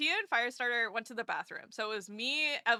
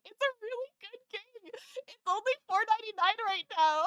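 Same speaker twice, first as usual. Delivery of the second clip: higher, put-on eager sales voice; salesman pitch; 9 semitones higher than usual. The speaker won over by Tumblestone, mock sales pitch. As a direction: pitch the game like an ad. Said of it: "It's like".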